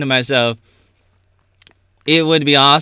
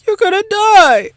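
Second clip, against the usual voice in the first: mock dire warning; 5 dB louder than usual. Dramatic warning punchline.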